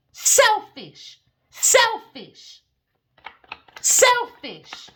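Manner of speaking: high, loud, repeated cry of selfish; real angry shouting; furious outburst. Real, not acted.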